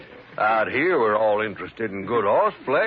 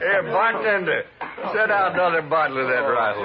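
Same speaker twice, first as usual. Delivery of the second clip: put-on a drunk hollering for another bottle; rowdy bar call; 5 semitones higher than usual. Rowdy drunk calling bartender.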